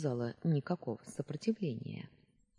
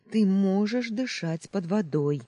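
higher, loud frantic plea; desperate pleading; 5 semitones higher, 7 dB louder than usual. Acted. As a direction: cry it out to convince him. Luna repeats Ametrin's plea.

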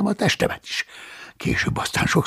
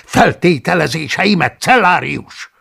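louder, accusing tirade; angry rebuke; 3 semitones higher, 4 dB louder than usual. Acted. Paulus angrily scolding the cellarius. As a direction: snap the accusations at him. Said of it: "dühösen rivaltam rá".

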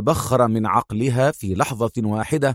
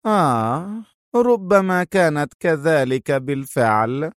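feigned understanding; 4 semitones higher, slower than usual. Acted. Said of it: "متفهمة".

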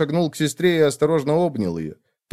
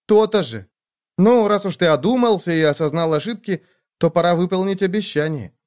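higher, insistent younger sister voice; a caring sister who won't take no; caring sister lightly voiced higher; bossy little sister; 4 semitones higher than usual. Sister teasing, demanding promise.

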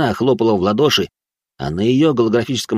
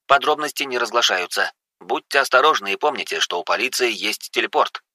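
slightly raised newsreader delivery; news bulletin; 3 semitones higher than usual. Acted. Imperial channel reports the attack, brisk newsreader. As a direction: read it like a news announcer.

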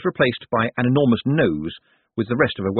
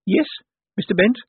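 through chattering teeth; 10 semitones higher than usual. A narrator's reading. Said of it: "through chattering teeth".

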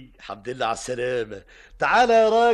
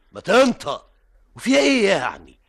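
angry push; 3 semitones higher, 4 dB louder than usual. Acted. Boss pressing the helper again.

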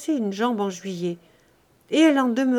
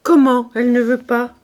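louder, angry outburst on "Comment"; indignant cry; 3 semitones higher, 9 dB louder than usual. Acted. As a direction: Lazare cries out in disbelief. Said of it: "s'écria Lazare".

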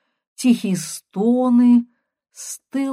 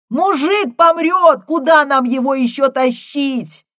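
shouting through blizzard; 7 semitones higher, 7 dB louder than usual. Acted. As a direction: call out over the wind.

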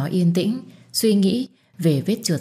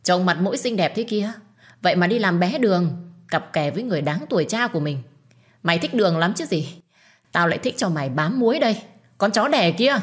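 angry scolding; 3 semitones higher than usual. Acted. Crowd woman berating Hương, angry scolding. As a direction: sneer and scold her as a home-wrecker. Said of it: "tôi đã nghe thấy tiếng quát tháo".

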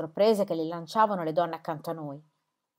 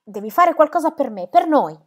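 higher, louder pleading call; girl pleading with her mother from the next room; urgent plea; 7 semitones higher, 8 dB louder than usual. Acted. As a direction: beg her mother to act, pressing hard. Girl bursts home calling mother.

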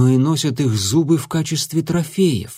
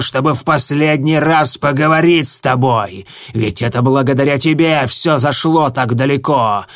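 louder, seething furious tirade; berserk rage; 3 dB louder than usual. Acted. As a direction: hurl the blame in rage. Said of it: "в ярости заорал звездоцап".

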